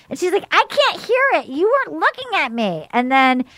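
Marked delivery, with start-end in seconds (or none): 0.5-2.9 higher-pitched indignant imitation; mock protesting. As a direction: act out a whiny objection in a quarrel. Retold quarrel, protesting.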